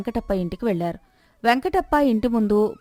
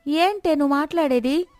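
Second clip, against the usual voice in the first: 1 angry retort; 6 semitones higher than usual. Acted. Neighbour snaps back angrily.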